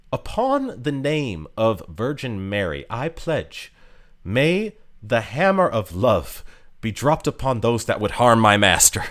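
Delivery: a hint of a posh British knight pledging loyalty; light posh British reading of a solemn oath. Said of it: "she sounds super posh British".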